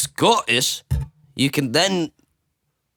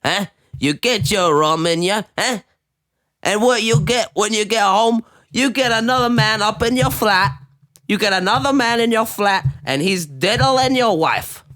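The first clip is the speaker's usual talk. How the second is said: mock rant; 6 semitones higher than usual. Mock-dramatic rant in put-on voice.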